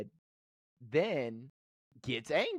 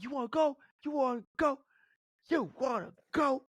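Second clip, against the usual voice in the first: mock challenge; 12 semitones higher than usual. Retold fight with dad.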